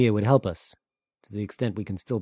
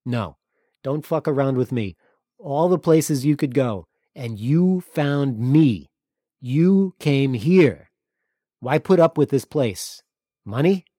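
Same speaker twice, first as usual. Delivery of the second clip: loud, higher, slowed demands; angry confrontation; 6 semitones higher, 9 dB louder, slower than usual. Acted. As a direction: push him hard, drunk and suspicious. Drunk Antonis confronts Thomas.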